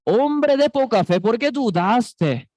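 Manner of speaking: God rebuking the doubter; stern rebuke, lightly voiced; scolding. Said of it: "Dios nos regaña".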